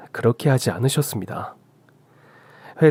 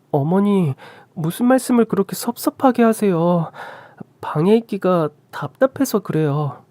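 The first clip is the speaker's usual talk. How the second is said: higher, mildly wounded voice; a touch of hurt in a raised pitch; hurt protest; 7 semitones higher than usual. Acted. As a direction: plead gently with a mother-in-law. Hurt daughter-in-law answers insult.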